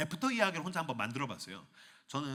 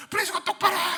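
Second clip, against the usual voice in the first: scolding wife, higher and louder; 9 dB louder than usual. Acted.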